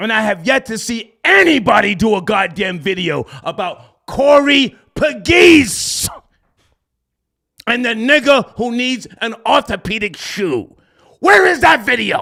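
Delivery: loud, heated, ranting yelling. Complaining that nobody has made a video about someone: yelling. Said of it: "Why am I yelling?".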